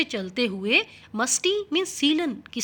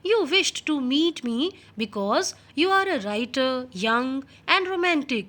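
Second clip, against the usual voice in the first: reading the English text slowly and clearly; much slower than usual. Shown as a demonstration. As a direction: read each word out slowly for the class. Teacher reads English text aloud. (धीमी आवाज़ में पाठ पढ़ना)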